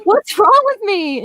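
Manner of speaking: playfully distraught retelling; mock upset. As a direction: lament it with hammed-up self-doubt. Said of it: "I'm still upset about it".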